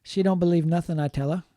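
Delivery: mild imitation of African American English, "don't" stressed; lightly imitating African American English on "She don't believe nothing". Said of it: "is my imitation of that".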